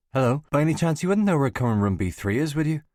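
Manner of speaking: put-on a young woman asking the way in a Northern Irish voice; Northern Irish accent. A narrator's reading. Girl asks a passing examiner for the room, Northern Irish accent. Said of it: "She has a Northern Irish accent".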